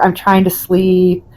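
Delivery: slow, mildly irritated complaint; cranky. Retold or imitated. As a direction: imitate a cranky woman wanting peace. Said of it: "she gets real cranky".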